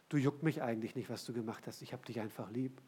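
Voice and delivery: low, soft and offhand; mock lenient reassurance. Preacher voices what Jesus does not say, softly indulgent. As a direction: drop it to a gentle, dismissive murmur.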